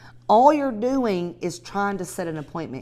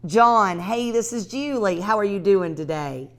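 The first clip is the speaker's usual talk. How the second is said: bright, upbeat sales call, pitched up; friendly cold call; 4 dB louder than usual. Shown as a demonstration. Teaching realtors a cold call, cheerful phone voice. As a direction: sound like you're smiling on the phone. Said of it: "I'm gonna do it one more time".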